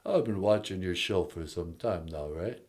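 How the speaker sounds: Stallone impression. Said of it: "it's Sylvester Stallone".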